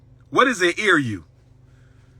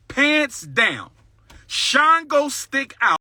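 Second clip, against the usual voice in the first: mock outrage; 7 semitones higher, much slower than usual. Real, not acted. Mocking the supposed trap.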